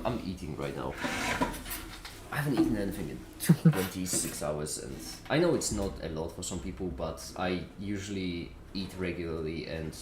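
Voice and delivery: talking while chewing; words round a bite of food; mouth full. Real, not acted. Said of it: "Sorry for eating my mouthful".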